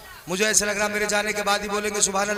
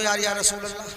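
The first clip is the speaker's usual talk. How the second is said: soft prayerful call; 3 semitones lower, 5 dB quieter, faster than usual. Shown as a demonstration. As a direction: murmur it with raised hands. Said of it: "हाथ उठा के बोल दो".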